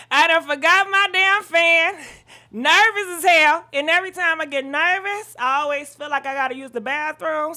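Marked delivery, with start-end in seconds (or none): 0.1-3.7 loud, breathless; panting out the words; out of breath. Real, not acted. Back at the camera without her fan, breathless. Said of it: "I'm out of breath".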